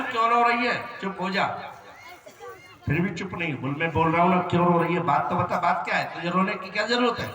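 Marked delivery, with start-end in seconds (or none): 0.0-1.5 louder, higher mock scold; husband scolding. Husband telling crying bride to hush, mock scolding. 3.7-7.3 loud, insistent mock scold; louder scolding. Husband demanding why the bride cries, loud mock scold.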